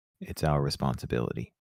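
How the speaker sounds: very low, humble, modest, self-effacing tone. Voicing a character's reply about fighting the monster: self-effacing voice. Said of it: "in, like, a, um, a self-effacing voice".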